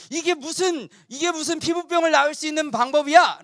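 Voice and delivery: 높은 목소리로 어이없어하며 따지기; 말도 안 된다는 듯 언성을 높여. Acted. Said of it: "막 화를 냈던 거예요". (요단강 처방에 발끈하는 장군, 높은 어조로 화내기)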